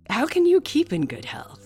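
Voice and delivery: laughing, loud and high; laughing through the line. Real, not acted. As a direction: giggle into the quote. Laughs into reading.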